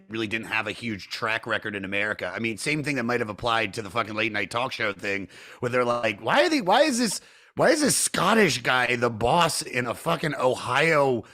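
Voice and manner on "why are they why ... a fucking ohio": mock incredulous. Host voicing puzzled viewers, incredulous. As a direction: quote a baffled viewer, pitch jumping up.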